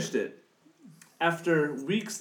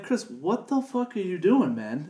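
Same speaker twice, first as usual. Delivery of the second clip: incredulous; 5 semitones higher, slower than usual. Retold or imitated. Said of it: "And I'm like".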